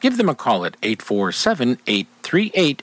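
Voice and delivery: measured radio sponsor credit; sponsor read. Acted. Radio host crediting the charter sponsor, ad read. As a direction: deliver it as a polished sponsor tag.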